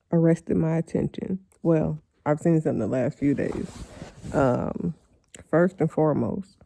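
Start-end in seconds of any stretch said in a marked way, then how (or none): 1.6-6.6 talking around a retainer; words slurred by a retainer; wearing a retainer. Real, not acted. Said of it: "I got my retainer in".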